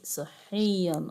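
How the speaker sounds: صحيًا slowly, lingering on the y sound; drawn-out yaa. Shown as a demonstration. Teacher checking madd yaa for pupils, drawn-out sound. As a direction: stretch the middle of صحيًا. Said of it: "مد ياء صحيًا".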